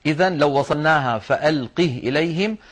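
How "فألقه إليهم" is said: فألقه with the ha vowelless, running on into إليهم; no vowel on the ha of فألقه; silent final ha. Shown as a demonstration. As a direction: join فألقه to إليهم, keeping a sukun on the ha. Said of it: "بإسكان الهاء وصلا".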